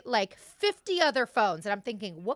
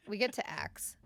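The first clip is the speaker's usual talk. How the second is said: whisper; 6 dB quieter than usual. Real, not acted. Hushed aside while telling.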